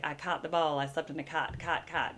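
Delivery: "caught" and "cot" said with the same vowel; Redding accent merging "caught" and "cot"; caught-cot demo. Shown as a demonstration. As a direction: make "cot" rhyme exactly with "caught". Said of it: "talk like this".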